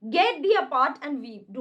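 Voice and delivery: slow, grave Shakespeare reading; dramatic recitation. Acted. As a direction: declaim each word slowly. Reads Shakespeare lines slowly. (धीमा नाटकीय पाठ)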